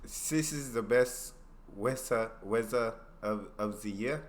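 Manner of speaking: halting try at "weather" with s or z for th; trying out "sis" for this, piece by piece; tentative German-accent practice, "weather" as "wezza"; practising German TH. Shown as a demonstration. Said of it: "T H with an S or Z sound".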